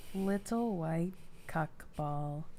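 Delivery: slow, eerie, creepy, drawn-out voice. Trying to imitate a game character's line: creepy GLaDOS impression. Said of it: "You sound way creepier than, uh, glados normally does".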